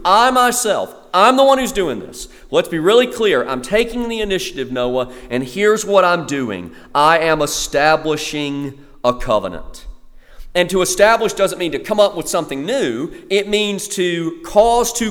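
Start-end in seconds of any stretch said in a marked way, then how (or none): 0.0-9.9 preacher voicing God's emphatic promise to Noah. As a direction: declare it as God taking charge, stressing "I myself". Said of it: "there's this emphatic in the Hebrew".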